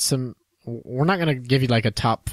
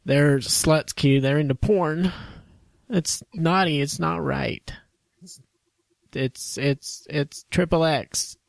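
mock scandalized; 4 semitones higher, slower than usual.

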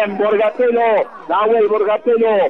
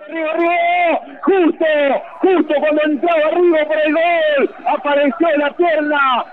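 excited commentary; 5 semitones higher than usual. Real, not acted. Jugada de peligro en el área.

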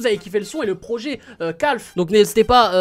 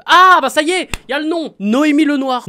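higher, louder burst of excitement; sudden recall; 7 semitones higher, 10 dB louder than usual. Real, not acted. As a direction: blurt it out, thrilled to remember. Retrouve enfin le nom de l'actrice. (exclamation soudaine, plus aiguë et plus forte)

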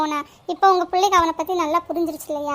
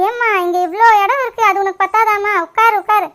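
loud, impatient order to sit; irritated scolding; 2 semitones higher, 6 dB louder than usual. Acted. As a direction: squabble over the seat at full voice. Irritated squabble over a seat. (எரிச்சலான அதட்டல்)

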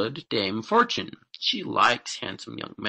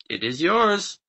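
higher-pitched, smiling grant; lightly pleased pronouncement; 6 semitones higher, 3 dB louder than usual. A narrator's reading. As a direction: grant it with a smile in the voice. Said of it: "smiling as she".

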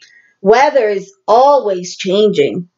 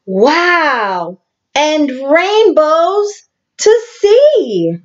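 slow, higher wonder at rainbows; delighted wow; 5 semitones higher, much slower than usual. Pretend. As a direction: marvel at it for the kids.

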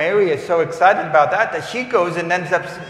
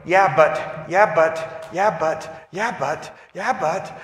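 doubtful objection; 4 semitones higher, slower than usual. Retold or imitated. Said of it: "we go".

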